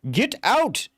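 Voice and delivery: demanding. Acted. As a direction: bark the order. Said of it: "he demands again".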